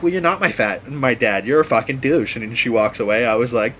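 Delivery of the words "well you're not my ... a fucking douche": sassy comeback. Retold or imitated. Girl tells off the thug.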